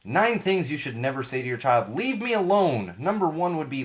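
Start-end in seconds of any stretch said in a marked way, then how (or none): 1.9-2.9 snapped, higher and louder, slow; an annoyed parent brushing off the kid; mock irritated parent. Parent snapping at the kid, leave me alone, higher and louder.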